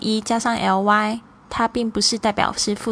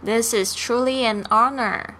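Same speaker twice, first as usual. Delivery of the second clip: This is truly an honor said slowly and evenly; calm careful model line for students; slow classroom read; slow dialogue. Shown as a demonstration. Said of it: "Let's do a slow dialogue".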